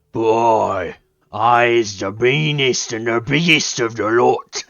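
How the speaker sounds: loud, gruff brute bragging; a rough Yorkshire-ish brute boasting; gruff Ogryn voice. Retold or imitated. Gamer trying the Ogryn's gruff voice. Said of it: "I don't really think I can do his particular accent".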